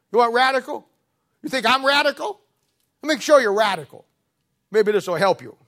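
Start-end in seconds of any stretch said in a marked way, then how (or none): 0.1-4.0 preaching shout. Real, not acted.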